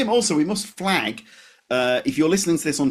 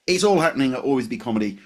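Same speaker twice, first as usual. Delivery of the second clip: local radio DJ; faster than usual. Acted. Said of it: "I said like, like a local D J".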